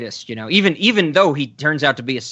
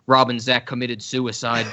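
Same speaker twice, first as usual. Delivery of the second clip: flat computerized robot voice; 5 semitones lower, 4 dB quieter than usual. Pretend. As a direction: read it like a machine announcement. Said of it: "a computerized voice going".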